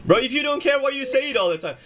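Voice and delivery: playful exasperation at a friend; incredulous teasing. Real, not acted. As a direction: call him out, half laughing. Teasing Grim about his complaints.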